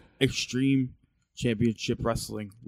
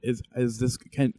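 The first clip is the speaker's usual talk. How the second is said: louder, testing how it carries; trying out loudness; 3 semitones higher, 6 dB louder than usual. Shown as a demonstration. Cohost testing his volume into the earpiece, louder. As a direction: test the mic level out loud. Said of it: "Can you hear me like this?".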